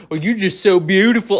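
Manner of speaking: lightly put-on Southern simpleton; mocking movie-line imitation. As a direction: imitate a badly acted Southern suitor. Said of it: "he sounds like Forrest fucking Gump".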